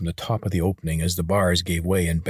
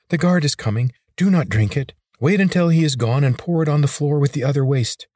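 higher, urgent little lizard; hurried higher warning; 6 semitones higher, 4 dB louder than usual. A narrator's reading. Tark the lizard warns Corvin.

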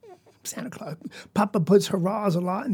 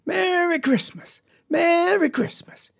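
high, slow, joyful yell; 9 semitones higher, slower than usual. A narrator's reading. Papa on the wagon greeting the children, high slow yell. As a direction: holler it out across the yard. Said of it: "he was a-yelling".

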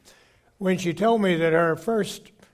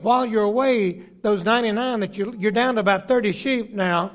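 full-force preaching; 2 semitones higher than usual. Acted. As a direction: drive the parable home to the congregation.

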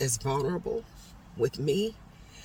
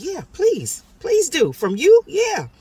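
high, loud, emphatic yes; eager acceptance; 14 semitones higher, 9 dB louder, slower than usual. Retold or imitated. Swimmer welcoming a stranger's suggestion, loudly eager. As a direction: jump at the offer, pitch leaping up.

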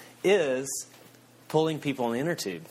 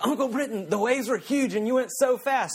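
put-on a frightened eight-year-old complaining to his uncle; scared nephew; 11 semitones higher than usual. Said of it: "he was like".

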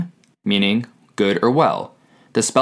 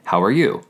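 "How are you?" with the pitch lifting on "you"; rising question inflection. Shown as a demonstration. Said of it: "Your voice naturally goes up".

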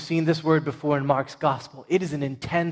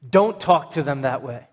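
a firm, louder scolding; indignant rebuke; 6 dB louder than usual. Acted. Jesus rebuking his disciples for shooing kids, indignant and loud. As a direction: snap at them to stop, with force. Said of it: "This is Jesus' tone".

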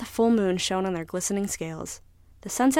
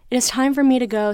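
tuna declares; 5 semitones higher, 5 dB louder than usual. Acted. Tuna announces leaving.

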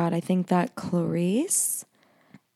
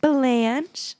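higher, rising call to a dog; dog mom voice; 5 semitones higher than usual. Real, not acted. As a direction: coo the dog's name like a doting owner. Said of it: "that's my dog mom voice".

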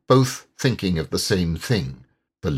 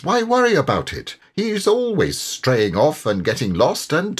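high, breezy cheerful Mole; an easygoing friend shrugging it off; 5 semitones higher than usual. Acted. Mole brushes off the worry.

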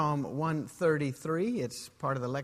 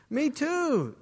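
lightly voiced eager man, pitched higher; chirpy, keen agreement; eager second guy; 10 semitones higher, 6 dB louder than usual.

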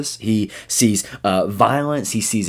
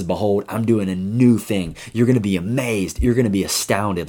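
inspirational quote voice. Pretend. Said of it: "that sounds so hopeful".

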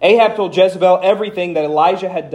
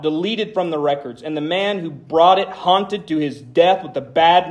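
dramatic scripture reading; slower than usual. Acted. Pastor reading Jeremiah's lament to the congregation, slow and heavy. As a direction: read it like a man cursing his birth.

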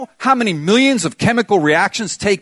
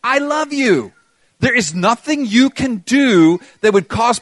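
impassioned, raised voice speaking as God; preacher voicing God's promise, pitched up; God's loving declaration; 2 semitones higher than usual. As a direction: declare it with insistent, rolling conviction. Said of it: "and he says".

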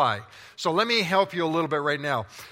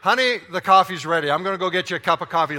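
breezy dodge; 6 dB louder, faster than usual. Retold or imitated. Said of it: "You're better off to just say".

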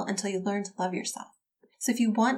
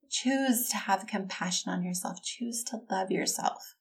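gentle plea; 7 dB quieter than usual. Real, not acted.

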